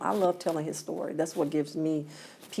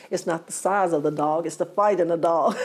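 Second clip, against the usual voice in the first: louder, breaking into a laugh on the proud line; laughing through the saying; 7 dB louder than usual. Retold or imitated. Mother quotes her saying to her son's friend, laughing. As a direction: laugh as you land your own saying.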